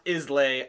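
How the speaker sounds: "Islay" with the s sounded, ending "lay"; spelling pronunciation. Shown as a demonstration. Host reads the label as spelt, "Islay" as IZ-lay. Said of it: "it looks like it's pronounced".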